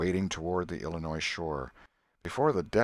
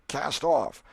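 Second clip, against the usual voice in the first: shouted command, higher and louder; a boatman's call; called order; 7 semitones higher, 6 dB louder than usual. A narrator's reading. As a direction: call it out across the boat. Voice gives order.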